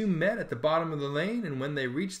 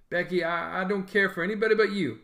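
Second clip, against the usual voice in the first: hesitant; 4 semitones higher than usual. Acted. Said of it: "Then he said hesitantly".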